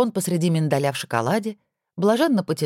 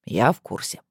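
pompous; 6 semitones lower than usual. A narrator's reading. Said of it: "важно сказал".

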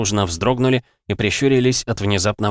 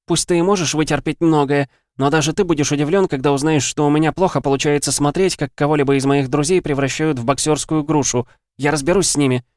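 higher, pressing anger building to a threat; heated outburst; 7 semitones higher than usual. Acted. Viv vowing to deal with Ray's attackers, heated. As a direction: push it out hot and fast. Viv furious about her friends.

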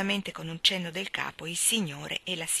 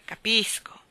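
Capisco sussurrato senza voce, allusivo; sussurrato con una smorfia; 3 semitones higher, slower than usual. A narrator's reading. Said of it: "fece una smorfia con la bocca". (Capisco detto sottovoce, ammiccante)

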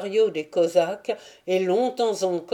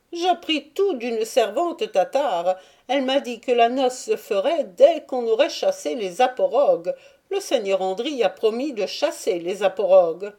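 higher, fast voice of the Jewish merchant recounting; Jew's story; 4 semitones higher, 4 dB louder than usual. Acted. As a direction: rattle the tale off quickly and eagerly. Jew tells his story. (le juif raconte vite, voix plus aiguë)

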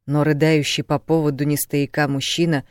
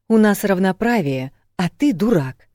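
raised, irritated retort; flaring anger; 5 semitones higher, 5 dB louder than usual. A narrator's reading. Woman angry again at her man, retorting. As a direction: snap back at him crossly. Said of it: "снова разозлилась Кари".

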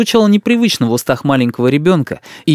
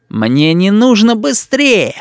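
put-on slow, higher sulky child; stubborn boy; 8 semitones higher, much slower than usual. A narrator's reading. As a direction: dig in like a spoiled kid. Boy refuses. (упрямый мальчишка)

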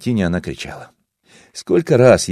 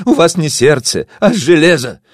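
high, loud bitter reproach; shouting accusation; 8 semitones higher, 5 dB louder than usual. Acted. Daughter shouts at the heartless narrator. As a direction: fling the accusation. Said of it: "прокричала дочка Васо".

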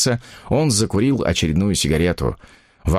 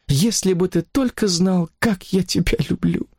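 longing woman; 9 semitones higher than usual. Acted. Mistress telling her lover how she loves him, longing. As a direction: say it with aching tenderness.

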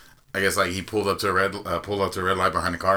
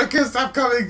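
high, laughing mock moan; 4 dB louder than usual. Joking about a date, a mock moan through laughter. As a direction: ham up a breathless woman.

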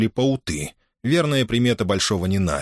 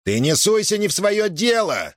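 much higher angry shout; 12 semitones higher than usual. A narrator's reading. Innokentiy shouting at Semyon to mind his own business. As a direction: shout him down, get out of my business. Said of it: "закричал Иннокентий на Семёна".

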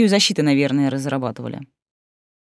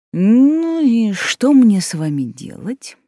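stern principal; 7 semitones higher, 5 dB louder, much slower than usual. A narrator's reading.

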